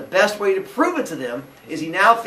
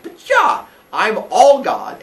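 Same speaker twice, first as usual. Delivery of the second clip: put-on indignant teen protest; 6 semitones higher, 7 dB louder, slower than usual. Phaethon protests to Helios.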